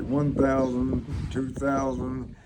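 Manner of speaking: counting out slowly; drawn-out count, one beat each; steady slow count. Shown as a demonstration. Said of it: "to count, like".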